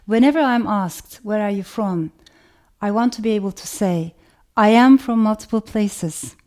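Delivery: measured, emphatic reading from a manifesto; reading aloud. Real, not acted. Author reads her manifesto passage to an audience, deliberate read-aloud. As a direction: read it out deliberately, leaning on each phrase.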